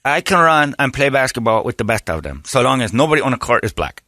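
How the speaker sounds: lightly put-on Navajo accent; mock Navajo sports bragging. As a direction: boast as a Navajo ballplayer, accent on. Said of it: "That's how the Navajo basketball tournaments".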